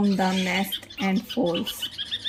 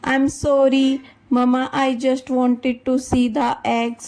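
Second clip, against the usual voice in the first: crying; 4 semitones higher, 5 dB louder than usual. Acted. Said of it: "Lily crying".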